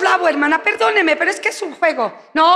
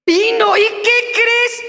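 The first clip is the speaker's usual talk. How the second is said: gossip excitement; 6 semitones higher, slower than usual. Acted. Acted gossip between church women.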